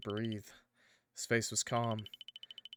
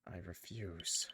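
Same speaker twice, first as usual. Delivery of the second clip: slow, heavy refusal; 3 semitones lower, 9 dB quieter, slower than usual. Acted. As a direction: drag out I refuse slowly.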